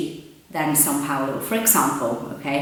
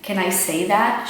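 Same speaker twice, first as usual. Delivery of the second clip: mock unsure learner; 4 semitones higher than usual. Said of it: "So she goes".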